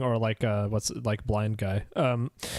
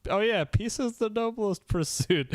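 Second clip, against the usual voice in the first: put-on high, slow, sweet girl voice; cutesy voice; 9 semitones higher than usual. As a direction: recite it like a cute kid proudly. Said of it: "so she fumbles through the line".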